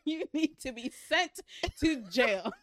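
outraged. Real, not acted. Outraged about bestiality.

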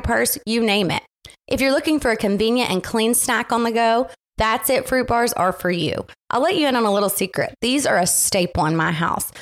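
upbeat sponsor read. Acted. Host reads ad to podcast listeners, upbeat ad read. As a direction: sell the snack to listeners.

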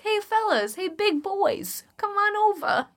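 hammed-up sultry call to male listeners; seductive come-on. Podcast host luring back male listeners, mock seductive. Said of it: "Come back, fellas".

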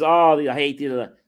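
slow, mildly hammed-up complaint; mock angry yelling. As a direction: imitate a pissed-off kid ranting. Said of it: "yelling, screaming".

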